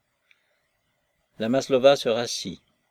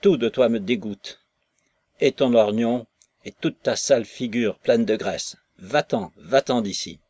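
loathing rant; 5 dB louder than usual. Acted. Maslova rages at Nekhludov.

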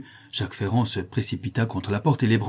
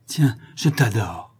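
exaltation; slower than usual. Acted. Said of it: "dit la créole avec exaltation".

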